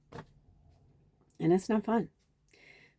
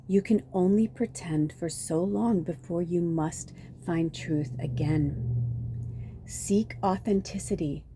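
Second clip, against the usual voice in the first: measured, deliberate reading from a book; solemn card reading. A narrator's reading. Reader giving listeners Selkie's message, deliberate read-aloud. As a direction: read it out as counsel, spacing each phrase.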